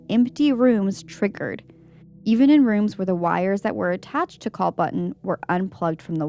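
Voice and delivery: measured read-aloud voice; composed narrator reading from the page; story narration. A narrator's reading. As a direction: read out a first-person account evenly. Reads a ghost story aloud.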